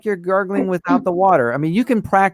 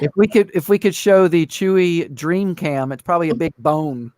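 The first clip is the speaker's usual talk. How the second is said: Chewbacca impersonation; 3 semitones higher than usual. Retold or imitated. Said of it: "doing the, uh, Chewbacca impersonation".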